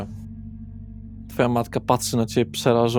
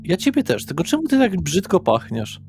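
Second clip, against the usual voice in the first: high, swooping puzzled complaint; affectionate complaint; 7 semitones higher than usual. Acted. Father to daughter about her bad smell, puzzled complaint. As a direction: tease her with a raised, incredulous pitch.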